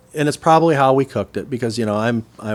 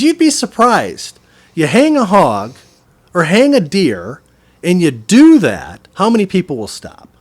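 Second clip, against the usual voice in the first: high, loud, slow phrases; acted emphatic explaining; 8 semitones higher, 11 dB louder than usual. Butcher explains his roadside trick, loud and drawn out. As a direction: drive each point home as the butcher.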